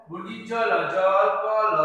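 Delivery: syllable-by-syllable reading: জ, ল, then জল; teacher spelling aloud. Shown as a demonstration. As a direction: spell out each letter, then join into the word. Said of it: "এরকম করে বলতে হবে".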